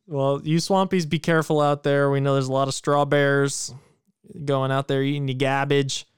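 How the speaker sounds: a hint of Boston accent on the warning to listeners; half-joking Boston accent, swallowed r's; light Boston accent. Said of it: "I don't know why I turned into Boston".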